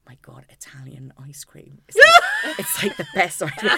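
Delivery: shouting with glee, pitch leaping; rapturous ice cream joy. Retold or imitated. Retelling her ecstatic reaction to Italian ice cream, laughing shout.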